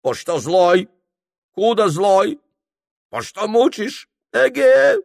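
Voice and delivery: high, abrupt angry Tungus; angry, curt. Acted. Tied Tungus angrily complaining to his captors. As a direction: snap each question short. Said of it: "говорил сердито, отрывисто".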